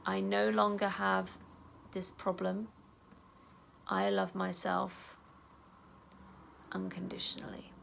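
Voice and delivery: calm self-talk while tapping; gentle affirmation. Shown as a demonstration. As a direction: say it tenderly to yourself. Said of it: "So tap on there".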